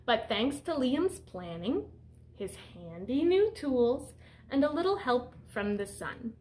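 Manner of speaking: picture-book read-aloud voice; reading to children. Acted. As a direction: read it out to the class like a storyteller. Teacher reads picture book aloud.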